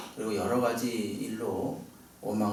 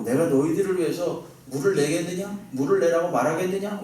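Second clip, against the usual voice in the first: mildly heated quote; 4 semitones higher than usual. Retold or imitated. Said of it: "굉장히 격앙된 어조로".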